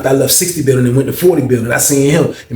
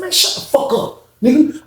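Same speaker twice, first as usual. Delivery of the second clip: angry snap; 12 semitones higher than usual. Retold or imitated. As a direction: shut him down hard. Acted quarrel, shutting down roommate.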